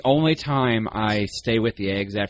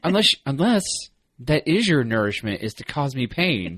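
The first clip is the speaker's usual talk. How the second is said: Jerry; 4 semitones higher than usual. Retold or imitated. Jerry working out the dog's cruelty, mock dismay. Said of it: "and he's like".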